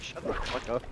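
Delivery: breathy unvoiced shut the fuck up; mock disbelief. Imitating friends telling a streamer to shut up, scoffing. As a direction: scoff it out under your breath.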